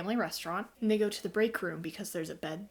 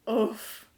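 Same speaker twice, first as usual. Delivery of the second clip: retold oof; 5 dB louder than usual. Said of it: "I out loud went".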